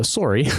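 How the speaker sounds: "sorry", first vowel as in sore; a Canadian tell, "sorry" rounded to "sore-ee". Shown as a demonstration. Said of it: "there were those exact same tells".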